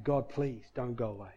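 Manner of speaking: hushed inward prayer, retold; quiet, understated begging; desperate plea. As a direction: plead softly under your breath to God. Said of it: "it was a desperation".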